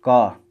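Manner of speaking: car demo, no r sound; American car. Shown as a demonstration. Teacher demonstrating American कार. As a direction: say कार without the r. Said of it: "यहाँ पे र का उच्चारण नहीं होता है".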